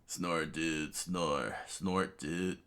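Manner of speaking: lightly voiced sleepy dude; half-hearted sleep mumbling; mock snoring. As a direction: speak the snores as words, a little low. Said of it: "started snoring".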